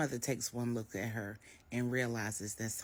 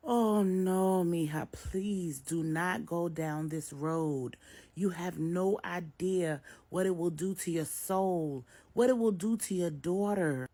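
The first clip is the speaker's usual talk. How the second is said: louder, slow, urgent pleading; pleading mother; 5 semitones higher, 6 dB louder, slower than usual. A narrator's reading. Maria urgently begs Jessica not to go down this road. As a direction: beg her to turn back.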